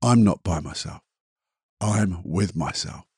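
quietly, gently, to himself; soft affirmation. Shown as a demonstration. Reciting his daily words to himself, softly. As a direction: murmur it like a private reassurance. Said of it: "and I normally say".

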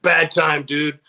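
mildly annoyed retold voice; pissed off. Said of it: "walked away all pissed".

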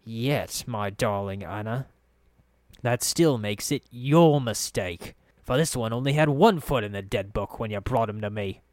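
understated menace, leaning on key words; quietly dangerous. Acted. Farid blaming Anna for her mistake, mildly menacing. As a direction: correct her with a veiled threat. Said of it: "then his voice dropped dangerously".

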